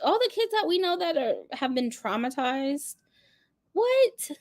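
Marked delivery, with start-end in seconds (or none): 3.7-4.3 What?. Real, not acted. Disbelief at sister.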